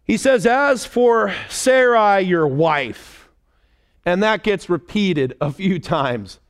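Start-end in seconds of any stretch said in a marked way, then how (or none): 0.5-3.3 slow, drawn-out emphasis on "Sarai" and "wife"; pointed reminder. Retold or imitated. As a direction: stretch "As for Sarai, your wife" out slowly and pointedly. God pointedly reminding Abraham of wife.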